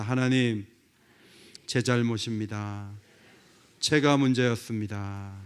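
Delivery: low, measured prayer of confession. Shown as a demonstration. Leads congregation in repeated confession. (낮은 목소리로 또박또박 고백하는 기도)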